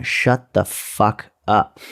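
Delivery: slow, spaced-out words of exasperation; exasperated retort. Retold or imitated. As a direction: draw each word out, fed up. Snapping back at an imagined bragger.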